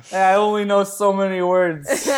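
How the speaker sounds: laughing. Real, not acted. Laughing mid-bit.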